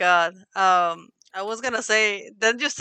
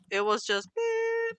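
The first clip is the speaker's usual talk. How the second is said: imitated beep; 13 semitones higher, 5 dB quieter, slower than usual. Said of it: "like, disconnected".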